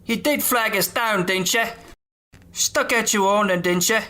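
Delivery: high, chirpy storyteller voice; Jim Dale voice. Retold or imitated. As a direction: sing it up high like a narrator. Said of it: "that's how Jim Dale read it".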